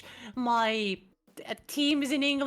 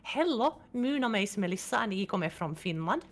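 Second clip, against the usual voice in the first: heavily hammed-up Finnish accent; English with broad Finnish sounds; thick Finnish accent; 2 semitones lower than usual. Shown as a demonstration. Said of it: "talk with a very thick Finnish accent".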